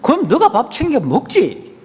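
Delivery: mock huffy retort. Spouse answering a complaint that the food is salty, mock huffy retort. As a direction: act out a lightly huffy comeback.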